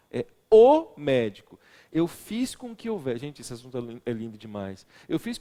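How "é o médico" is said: the o slowed and far louder; o in o médico said loudly and slowly; stress on o. Shown as a demonstration. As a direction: punch the o as if pleading in court. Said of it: "se fosse uma sustentação oral".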